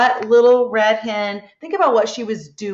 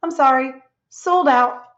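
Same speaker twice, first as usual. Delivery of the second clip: reading the hen's line; 3 semitones higher than usual. Retold or imitated. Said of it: "she tells Crocodile".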